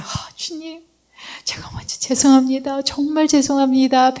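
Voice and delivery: whispered prayer of apology to the Lord; hushed, contrite plea; repentant whisper. Retold or imitated. Preacher turning to pray after the quarrel, whispered and contrite. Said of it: "돌아서 제가 어떻게 해서".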